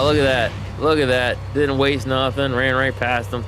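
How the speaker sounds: loud, pleased commentary; pleased gloating. Real, not acted. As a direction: crow a little over a clean move. Celebrating a move in game.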